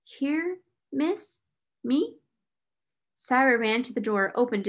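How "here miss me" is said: surprised. Acted. Becky lost her breath again.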